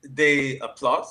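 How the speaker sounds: loud, slow proud claim; proud boast. Acted. Proud naked neighbor boast.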